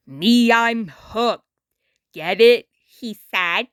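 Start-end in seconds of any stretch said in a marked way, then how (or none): 0.1-1.4 hushed confiding punchline; whispered aside. Acted. 2.1-2.7 put-on lower, laid-back old star voice; a worn-out celebrity talking down to a kid; Muddy Mud Skipper.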